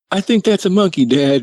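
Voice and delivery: put-on high, wondering kid voice; curious little brother. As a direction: imitate a small boy puzzling it out. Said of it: "just curious".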